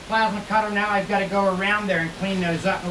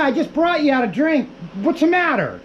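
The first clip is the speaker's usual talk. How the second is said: higher, all in one breath; line demo, higher; 6 semitones higher than usual. Shown as a demonstration. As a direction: read it through without a pause. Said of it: "you want it all together".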